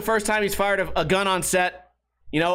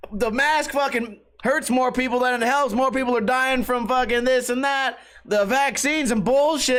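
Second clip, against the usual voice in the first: higher-pitched mock rant; preaching store clerk; 5 semitones higher than usual. Clerk preaching to customer about masks, imitated rant. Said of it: "preaching to a guy that just wants to get his".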